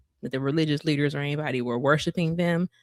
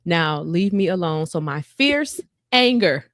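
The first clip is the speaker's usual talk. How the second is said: scripture reading. Acted. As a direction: read God's words with gravity.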